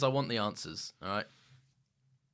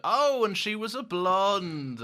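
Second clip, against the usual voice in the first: mock jealous Martha; 7 semitones higher, 5 dB louder, much slower than usual. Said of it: "who's like".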